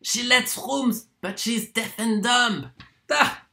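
high, exclaiming burst of discovery; excited realisation. Acted. Lodger realises the landlady is deaf and dumb, excited. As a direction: cry it out as the truth suddenly dawns.

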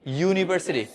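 ইউনিভার্সিটি with a firm "yoo" at the start; ইউনিভার্সিটি said clearly, leading with the Y sound; model pronunciation. Shown as a demonstration. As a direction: model ইউনিভার্সিটি for students to repeat. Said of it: "বলার চেষ্টা করো".

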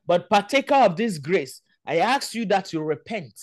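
solemn, emphatic prayer of judgment; earnest pulpit call to repent; fervent preaching. Real, not acted. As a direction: preach it with weight on each phrase. Prays judgment, calls to repent.

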